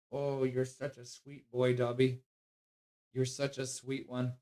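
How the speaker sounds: soft, slow cooing; cooing to dog. Real, not acted. Owner doting softly on his sweet dog. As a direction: dote gently on the dog.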